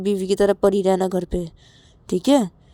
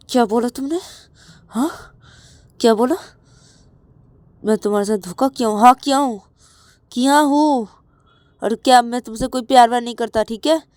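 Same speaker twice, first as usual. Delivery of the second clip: angry retort; 5 semitones higher, 6 dB louder, faster than usual. Acted. Rahul angrily admits cheating.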